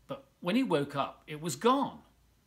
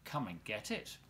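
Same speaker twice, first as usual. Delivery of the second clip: sly lure; 5 semitones lower, 7 dB quieter than usual. Acted. Crocodile luring the boy.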